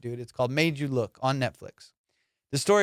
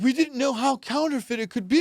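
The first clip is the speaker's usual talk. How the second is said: mocking quote; 8 semitones higher than usual. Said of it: "And they're like".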